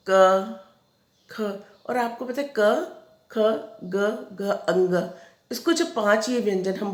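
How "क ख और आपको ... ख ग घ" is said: क, ख, ग, घ said one by one with pauses; sounding out consonants. Shown as a demonstration. Teacher reciting throat consonants to pupils, each letter separate. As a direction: spell out क ख ग घ slowly, one at a time. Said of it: "जैसे देखिए आप".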